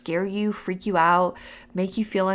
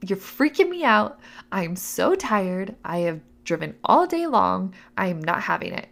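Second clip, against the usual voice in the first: fed up; 3 dB louder than usual. Retold or imitated. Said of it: "I was fed up".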